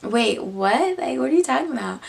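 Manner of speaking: feigned bafflement, lifting in pitch; playing dumb. Her pretending not to understand her friend, feigned confusion. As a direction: act clueless, quickening into the question. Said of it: "Like, I'm acting stupid".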